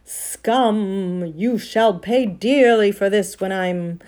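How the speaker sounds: loud, ringing proclamation, almost exultant; witch, clear as a bell. A narrator's reading. Witch threatening the crowd with conquest, clear ringing voice. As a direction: declaim the threat like a great bell, drawing out the last names. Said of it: "clear like a great bell".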